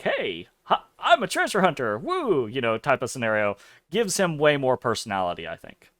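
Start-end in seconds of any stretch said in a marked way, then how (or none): 0.0-2.5 lightly voiced eager treasure hunter. Streamer imitating Hero's intro spiel, lightly mock-boastful. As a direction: play the boastful young adventurer, lightly. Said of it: "telling his whole, like".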